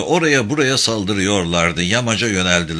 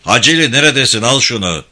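raised voice hailing a soldier; calling out; 5 dB louder than usual. Acted. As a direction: call sharply to your man. (yüksek sesle seslenme)

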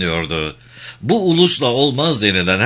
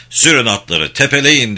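shouted order; 4 semitones higher, 5 dB louder than usual. Acted. Officer orders charge in battle.

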